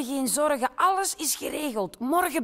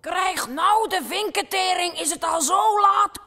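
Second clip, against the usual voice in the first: startled exclamation; 4 semitones higher, 4 dB louder than usual. Acted. Bird startled by time.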